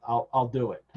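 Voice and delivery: lightly voiced desperate plea, fast at first; pleading Renfield. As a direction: rush the begging like a frantic inmate. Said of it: "He's like".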